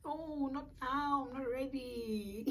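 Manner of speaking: high, slow mock panic; panicked plea. Nurse says she's in labour, she pleads, panicked.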